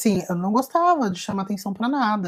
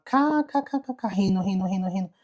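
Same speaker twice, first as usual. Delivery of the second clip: mocking cackle. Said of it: "acordei com a risada dela".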